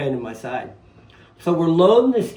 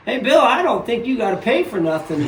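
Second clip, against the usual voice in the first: laughing boast; 6 semitones higher, 6 dB louder than usual. Retold or imitated. Retold boast to stepfather.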